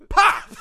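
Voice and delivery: very high, loud mouthed pop; smoke bomb pop. Acted. Impostor wrestler setting off his smoke bomb, loud pop. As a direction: burst it out explosively.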